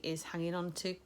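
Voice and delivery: words caught by a hiccup. Real, not acted. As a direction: hiccup cuts into is hanging on to. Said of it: "sorry, I'm hiccuping".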